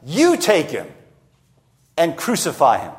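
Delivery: taunting, stress thrown on "You"; sarcastic. Acted. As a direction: toss it back at them mockingly. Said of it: "sarcastically, saying to them".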